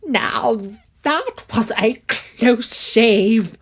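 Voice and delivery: lightly voiced uncle, slow and relieved. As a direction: breathe out the relief after the escape. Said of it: "said Uncle".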